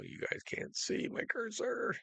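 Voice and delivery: breathy, unvoiced muttered aside; whispered aside. Real, not acted. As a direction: whisper it to yourself. Aside to viewers about the cursor.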